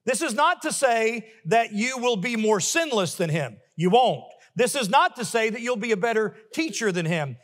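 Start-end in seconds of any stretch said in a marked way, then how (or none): 3.8-4.2 WON'T punched loud; emphatic reply. Acted. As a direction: hit "won't" hard each time. Repeated answer, punched loud.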